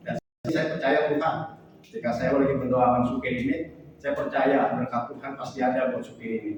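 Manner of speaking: earnest, steady prayer voice; spoken prayer. Acted. Praying for the angkot driver, earnest prayer. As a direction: pray over him with conviction.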